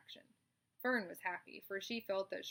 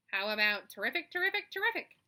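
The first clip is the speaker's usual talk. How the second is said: rising to high, loud honks; goose honking; 4 semitones higher, 10 dB louder than usual. Acted. The goose suggests a slogan to Charlotte, excited honking. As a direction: honk it with growing excitement. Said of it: "asked the goose".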